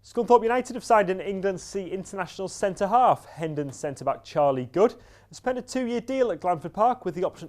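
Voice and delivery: lifted, measured bulletin delivery; sports news read. Real, not acted. Sports reporter reading local football and boxing news, bulletin read. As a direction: read the sports headlines, each starting high and stepping down.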